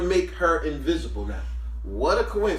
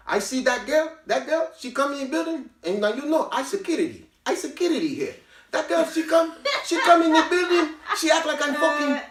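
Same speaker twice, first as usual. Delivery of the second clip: put-on higher, lightly accented security guard; Latino accent; 8 semitones higher than usual. Security guard Manny complaining about the rude girl in a higher, accented voice. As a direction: do the guard's broken-English gripe, pitched up.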